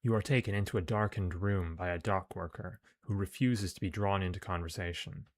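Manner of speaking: measured, projected story reading; story narration. A narrator's reading. Player reads the game's mission text aloud, narrating. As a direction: read it out like an adventure tale.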